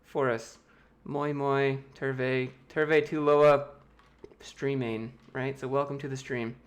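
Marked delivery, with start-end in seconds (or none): 1.0-3.7 Finnish greeting "Moi moi, terve, terve tuloa"; speaking Finnish. Shown as a demonstration. Greeting chat viewers in Finnish on request, lightly voiced. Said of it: "Speak some Finnish for us".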